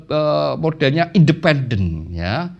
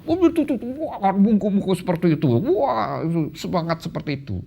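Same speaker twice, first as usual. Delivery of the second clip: Japanese speaker impression; 5 semitones higher, faster than usual. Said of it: "orang Jepang itu kalau berkata".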